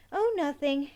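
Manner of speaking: trying to sound serious. Acted. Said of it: "Emmy tried for a serious tone".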